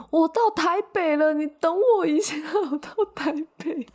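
put-on loud, high, laughing old lady on the phone. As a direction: talk too loud into the phone. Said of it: "那个阿婆她就讲电话讲大声说".

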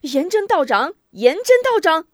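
high, loud shout for help; panicked, climbing yell; frantic calling. A narrator's reading. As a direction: call out urgently for your ally. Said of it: "忙喊".

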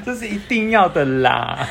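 slow, drawn-out Taiwanese Mandarin; Taiwanese slang drawl. Retold or imitated. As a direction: stretch 的啦 lazily. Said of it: "怎么听起来那么怂啊".

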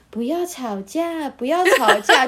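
a hint of a mellow drunk, slow; slurred calm drunk. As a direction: drawl it like a sleepy drunk. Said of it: "他就这样很平缓的说". (慢吞吞地学醉汉平缓劝架)

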